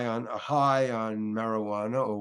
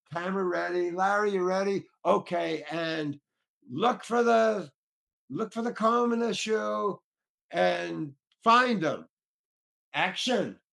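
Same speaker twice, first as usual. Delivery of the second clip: director calling cues; 5 semitones higher than usual. Retold or imitated. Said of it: "John is directing".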